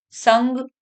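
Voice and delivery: "संग" ending in ringing ng; contrasting nasal sounds. Shown as a demonstration. Teacher showing pupils the difference, ng in "संग". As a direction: say "संग" as sang with ng. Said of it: "ये अंतर है".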